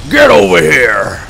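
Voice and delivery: loud, slow, drawn-out summons; hammed-up fighting-game shout; mock battle call. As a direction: bellow it long, falling at the end. Mimics a game catchphrase.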